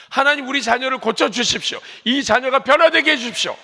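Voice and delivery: put-on high, loud cry to God for a child; fervent pleading prayer. Parent pleading with God for their child, loud fervent cry.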